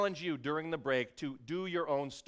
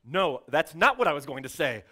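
offended correction; 7 dB louder than usual. Retold or imitated. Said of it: "offended, have to go".

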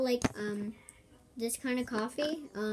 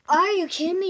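higher and louder disbelief; exasperated; 7 semitones higher, 13 dB louder, faster than usual. Real, not acted. Gamer frustrated at another player, disbelieving. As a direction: throw it out in disbelief. Annoyed at game.

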